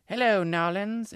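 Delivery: put-on high, loud, drawn-out Creole accent holler; yelled Creole accent. A narrator's reading. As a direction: yell it slowly in a boy's best Creole accent. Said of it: "in his best Creole accent".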